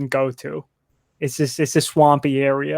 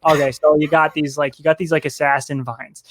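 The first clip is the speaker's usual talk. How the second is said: put-on light Minnesotan accent, easygoing; a folksy Minnesotan tree drawling gently. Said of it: "the trees have got a thick Minnesotan accent".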